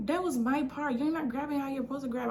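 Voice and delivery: mad coworker. Retold or imitated. Storyteller mimics the woman who was mad at her, mock angry. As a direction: imitate her quick, mad complaint. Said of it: "she was so mad".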